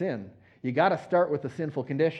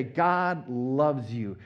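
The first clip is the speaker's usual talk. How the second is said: slow, gentle, heartfelt appeal; sincere and slow. Shown as a demonstration. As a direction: speak it to one person, sincerely. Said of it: "To look at somebody and say".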